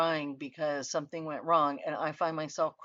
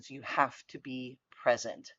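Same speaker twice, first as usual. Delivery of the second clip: whisper; 2 semitones lower than usual. Acted. Coach urging presence in empathy.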